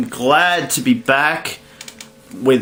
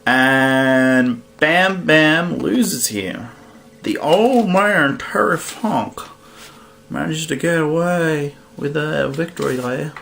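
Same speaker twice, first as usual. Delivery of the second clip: put-on weak Texas accent; 2 semitones higher, slower than usual. Announcing old man Terry Funk's win in a half-hearted Texas accent. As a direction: try a Texas accent and mostly miss. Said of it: "I can't do a Texas accent".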